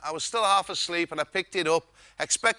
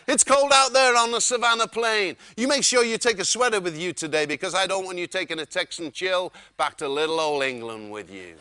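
Wayne; 5 dB louder than usual. Retold or imitated. Wayne tells guest to take a sweater, mild Texan impression. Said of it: "He said".

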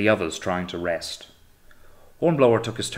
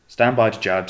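called out order, louder; 6 dB louder than usual. Acted. Hornblower orders the crew to jib, called out loud. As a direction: call the order across the boat.

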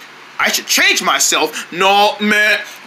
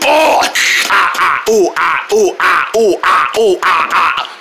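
screaming while falling; 3 semitones lower, slower than usual. Acted. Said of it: "It's gonna feel like this".

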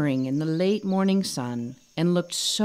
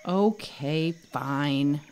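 pouting; 3 semitones lower, much slower than usual. Acted. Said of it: "Kino said with a pout on his face".

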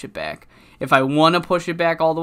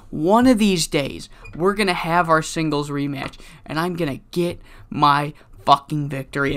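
angry threat. Retold or imitated. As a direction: spit it at your rival. Wrestler cuts promo on rival.

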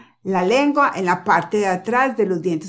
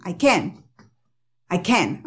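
"can" stressed, said like ken; 2 semitones lower, slower than usual. Shown as a demonstration. Teacher showing where the stress falls. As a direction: lean on "can" with an E sound. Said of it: "ellos dicen".

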